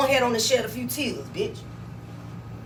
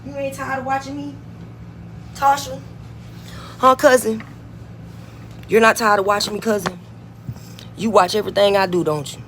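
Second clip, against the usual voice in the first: taunting call-out; 3 semitones lower than usual. Real, not acted. Taunting cousin Tasha.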